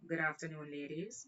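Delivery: polite, measured greeting; respectful officer. Retold or imitated. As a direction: greet them with quiet respect. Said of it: "Very respectful".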